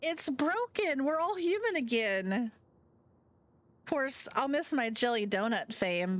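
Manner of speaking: high, giddy celebration; high bubbly friend, then concerned; excited Finley. Acted. Finley celebrates curse broken.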